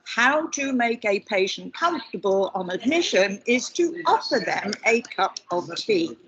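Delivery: deliberate, drawn-out spelling-it-out voice; really slowly. Shown as a demonstration. Telling the group how to make patients comfortable, said really slowly. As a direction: lay each word down slowly so nobody misses it. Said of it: "And I'll say it really slowly".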